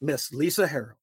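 booming ringmaster introduction. Acted. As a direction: announce her like a circus act. Grand guest introduction.

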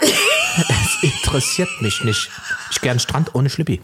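hammed-up defiant shout. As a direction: toss it off in mock rebellion. Acting defiant East German nudist.

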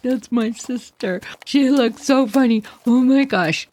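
a hint of giggling through the excuse; giggly kids. Kids explaining to the crowd why they laugh, giggly. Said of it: "And we're like".

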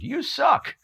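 high, loud heckling yell; retold scream. Hypnotized student heckling the hypnotist onstage, high yell. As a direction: shout it up high like an angry heckler. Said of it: "that one guy screamed".

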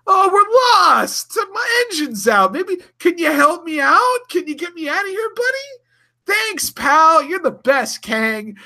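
very high, falsetto innocent Sulu. Retold or imitated. Sulu sweet-talks Kang, squeaky high and innocent. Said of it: "Sulu's like".

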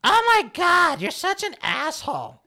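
high, loud exaggerated exclaim; mock outraged quote. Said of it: "I'm like".

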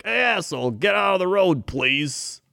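Chicago driver, mock friendly yell. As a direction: bark then add a polite please. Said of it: "in Chicago, they're like".

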